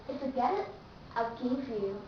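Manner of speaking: "get it" with the final T stopped before the pause; T cut before pause. Shown as a demonstration. Teacher shows T before a pause, unreleased. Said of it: "sound of letter T is cut off".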